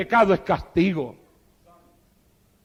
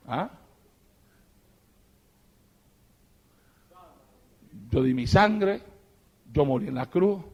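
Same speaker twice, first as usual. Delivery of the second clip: much softer, lower, tender sermon voice; hushed intimate preaching; 10 semitones lower, 5 dB quieter, faster than usual. Acted. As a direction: draw them close in a near hush. (predicación íntima y suave)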